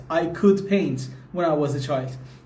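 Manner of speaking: slow, careful sentence; slow model sentence. Shown as a demonstration. Teacher repeating the example slowly for the class.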